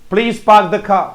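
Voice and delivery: पार्क as "paak" and car as "khaa", both R's silent; phonetic English pronunciation. Shown as a demonstration. Teacher shows pupils the phonetic sentence, silent R's. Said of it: "जब ऐसे English बोलते हैं".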